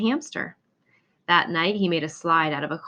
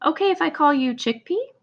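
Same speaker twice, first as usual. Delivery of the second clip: gentle asking Edgar; 8 semitones higher, 4 dB louder than usual. Acted. Edgar names the hamster.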